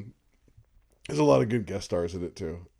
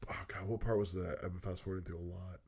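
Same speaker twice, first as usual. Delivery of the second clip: whisper; 4 semitones lower, 13 dB quieter than usual. Real, not acted. Searching memory, muttering.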